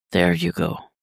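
whispered, breathy comfort; hushed whisper of comfort; murmur. Acted. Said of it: "Damien murmurs".

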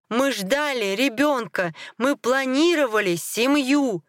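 slow, high, impassioned outburst; exploding. A narrator's reading. Husband recalls the family they planned, bursting out slowly. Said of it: "взорвался я".

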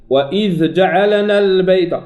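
وإذ جعلنا البيت with the لام rushed; wrong reading. Shown as a demonstration. Teacher reciting the mistaken version of جعلنا. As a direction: rush the ل in جعلنا. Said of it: "خطأ".

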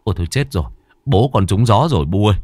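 rushing, anxious orders, speeding up; urgent worried son calling for help; worried, hurried. Acted. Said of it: "Thằng Phiên lo lắng". (lo lắng, vội vàng)

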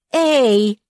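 high, loud, strained wail; a sharp breathy yelp of outrage; wailing cry. A narrator's reading. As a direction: howl it out in protest. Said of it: "взвыла Нинон".

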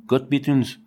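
put-on German words called out with a German accent; the soldiers' German battle cry, said in German; German war cry. A narrator's reading. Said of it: "les deux cris terrestres".

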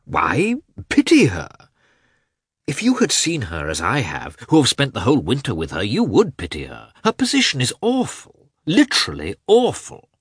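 high, loud, emphatic character voice; Oblonsky. A narrator's reading. Oblonsky pleads Anna's awful position, high and emphatic. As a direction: urge it with rising pitch and force.

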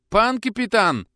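high, loud, drawn-out call. Acted. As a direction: call out as the door bursts open. Stas calling, bursting in.

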